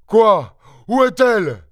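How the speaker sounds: high, alarmed yell. A narrator's reading. Father rushing in to find his wife, yelling. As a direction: cry out the questions, pitch jumping up. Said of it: "hurla maître Goussot qui survenait".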